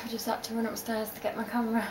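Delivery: breathless, words rushed out fast; catching breath while talking. Real, not acted. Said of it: "sorry I'm out of breath".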